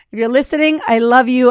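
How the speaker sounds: a loud, laughing-warm call to mom; loud fond shout-out. Real, not acted. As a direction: call it out so Margie can hear. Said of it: "Margie, I love you if you're listening".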